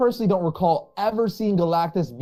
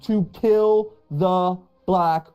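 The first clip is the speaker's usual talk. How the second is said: higher and drawn out in awe; speechless awe; 4 semitones higher than usual. Real, not acted. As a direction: stretch bomb to kill the Black Winter in disbelief. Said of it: "I'm speechless".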